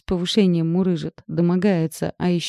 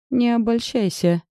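scoff; 6 semitones higher than usual. Acted. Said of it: "фыркнула она".

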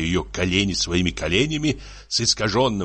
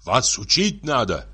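higher-pitched, hectoring lecture; angry scolding; 6 semitones higher than usual. Acted. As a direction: scold her, building to an exclamation. Tipsy husband scolds crying wife.

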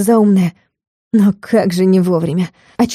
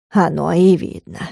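grumbled reply; 4 semitones lower, 3 dB quieter than usual. A narrator's reading. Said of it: "буркнули в ответ".

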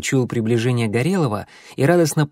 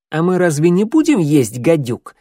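sarcastic; 5 semitones higher, 5 dB louder than usual. A narrator's reading. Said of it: "съязвил Клубок".

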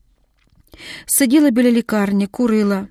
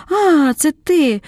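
startled, then a much higher slow relieved "А, це ти!"; relieved gasp; 7 semitones higher, 4 dB louder, much slower than usual. A narrator's reading. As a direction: let the fright melt into relief. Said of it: "видихнула полегшено".

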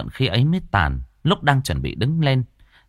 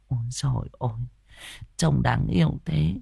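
muttered fondness; 3 semitones higher, 6 dB quieter than usual. Acted. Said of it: "lẩm bẩm".

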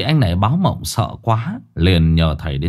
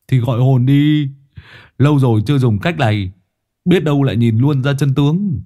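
put-on higher, louder gruff old man; Tứ proposing a séance, louder old-man voice; old man Tứ suggesting; 4 semitones higher, 3 dB louder than usual. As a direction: toss out the idea like an old rogue.

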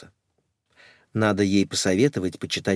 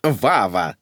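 commanding. Acted. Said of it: "скомандовала маменька".

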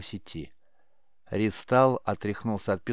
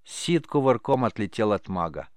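ordinary delivery

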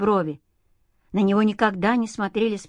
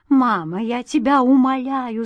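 crying; 4 semitones higher, 5 dB louder than usual. A narrator's reading. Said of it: "заплакала Света".

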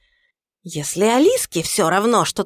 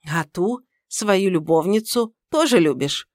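scornful lecture; 3 semitones higher, 4 dB louder than usual. Acted. Mother-in-law lectures about mistress.

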